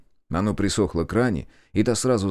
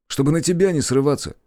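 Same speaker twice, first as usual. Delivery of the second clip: smirking; 8 semitones higher, 3 dB louder than usual. Acted. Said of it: "с ухмылкой ответил брат".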